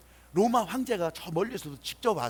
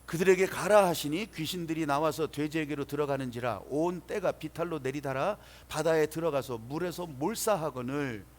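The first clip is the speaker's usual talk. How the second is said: measured public Bible reading; scripture reading; 3 semitones lower, 3 dB louder than usual. Acted. Pastor leading the congregation's responsive reading, formal scripture reading. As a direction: read the verse out solemnly, falling at the close.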